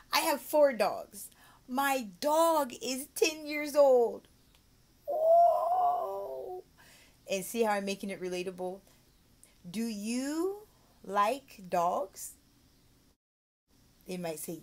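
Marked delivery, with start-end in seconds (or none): 0.1-6.6 put-on high, loud, drawn-out amazement for a child; excited teacher. Shown as a demonstration. Demo making it relatable to child. 9.7-12.3 very slow question with a rising lilt; teacher asking a child. Shown as a demonstration. Demo question to young pupil.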